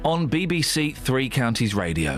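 measured radio headline read; news read. Acted. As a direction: read the bulletin straight, formally.

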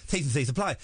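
lisping past a mouth ulcer; thick tongue, slurred s sounds; swollen tongue lisp. Shown as a demonstration. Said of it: "without the lisp".

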